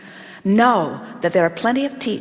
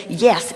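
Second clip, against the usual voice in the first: "Yes." said firmly, with full weight; a firm, certain "Yes." to the questioner; emphatic yes; 2 semitones lower than usual. Shown as a demonstration. Assuring the questioner, an emphatic "Yes.".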